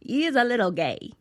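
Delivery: put-on a light thick Italian accent; lightly voiced Italian PR lady. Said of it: "really thick, like, Italian accent".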